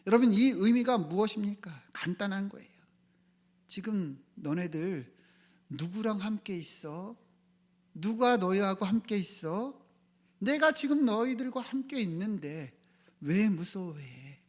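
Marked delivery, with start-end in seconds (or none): 3.7-14.4 restrained rebuke in pointed questions; understated scolding, slowing at the end; reproachful. Retold or imitated. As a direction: mildly chide the disciples, question by question. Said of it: "제자들을 책망하듯 말씀하셨어요".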